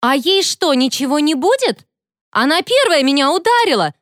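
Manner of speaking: high indignant yell; the bully yelling at the teacher, high; shouting complaint. A narrator's reading. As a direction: yell it, stamping a foot. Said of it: "закричала та".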